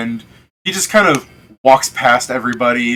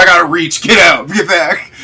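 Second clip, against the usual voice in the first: shooing shout; 5 semitones higher, 6 dB louder than usual. Acted. Player character shoos line-cutters.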